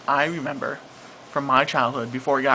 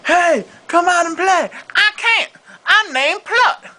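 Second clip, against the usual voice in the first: high squeaky cartoon voices, jumbled syllables; spoonerism skit; 3 dB louder than usual.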